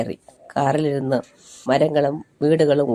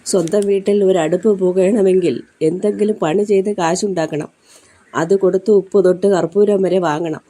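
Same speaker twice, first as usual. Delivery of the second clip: emphatic lament; 5 semitones higher, 4 dB louder than usual. Acted. Maid's bitter lament to mistress.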